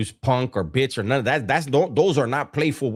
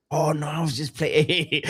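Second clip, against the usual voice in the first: laughing retreat. Retold or imitated. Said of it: "backing down".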